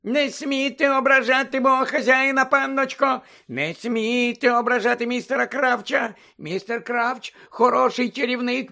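high, loud, sustained elf squeal; Winky, shrieking squeak. A narrator's reading. Winky forbidding insults to her master, outraged squeal. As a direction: squeal furiously, holding the pitch up. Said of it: "і запищала".

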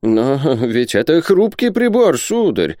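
high, drawn-out fretful protest; anxious babbling. Acted. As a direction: plead nervously for the fragile instrument. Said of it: "залепетал Исаак Хакабут". (испуганный лепет, высоким голосом)

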